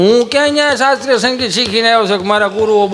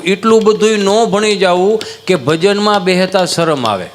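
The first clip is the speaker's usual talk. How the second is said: slow emphasis. Shown as a demonstration. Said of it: "હું તો એટલું કહું".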